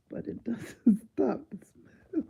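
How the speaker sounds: breathless laugh over the words; whispered through a laugh. Retold or imitated. Reading the doctor's reply aloud, whispering through laughter. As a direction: whisper it, cracking up.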